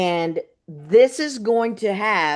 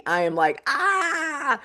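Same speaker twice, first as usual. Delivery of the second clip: nervous cry; 8 semitones higher, slower than usual. Real, not acted. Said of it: "a little bit of my feels".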